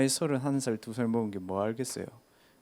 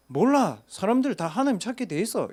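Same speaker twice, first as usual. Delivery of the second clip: put-on gruff old man; 9 semitones higher, 4 dB louder than usual.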